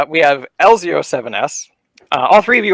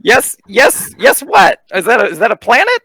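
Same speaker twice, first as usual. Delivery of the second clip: incredulous caller; 6 semitones higher than usual. Acted. GM voices caller reacting.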